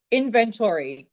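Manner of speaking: "inventory" with a full "tory" ending; American pronunciation. Retold or imitated. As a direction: say "inventory" as IN-ven-tor-ee. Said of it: "they would emphasize different parts".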